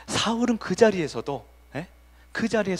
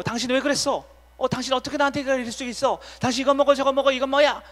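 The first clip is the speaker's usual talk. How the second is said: higher, whiny hurt-wife complaint; hurt wife complaining; 9 semitones higher than usual. Retold or imitated. Pastor imitating a hurt wife complaining to her husband, higher and whiny. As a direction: plead and accuse like an upset wife. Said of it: "서운해가지고".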